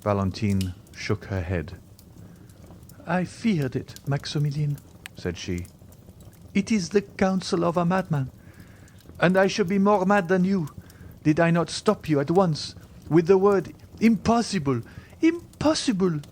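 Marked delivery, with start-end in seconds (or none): 3.1-13.7 high voice, mounting agitation; young woman building to a high outcry; distressed Valentine. A narrator's reading. Valentine refuses. 14.0-14.8 high, forceful exclamation; agitated outcry; emphatic refusal. A narrator's reading. First cry of refusal. 15.2-16.2 very high outcry; top-of-the-voice pitch, emphatic; frantic refusal. A narrator's reading. Repeated, heightened cry of refusal.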